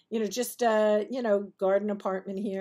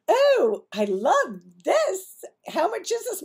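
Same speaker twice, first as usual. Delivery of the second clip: gushing customer; 9 semitones higher, 6 dB louder, slower than usual. Retold or imitated. Customer gushes over purse.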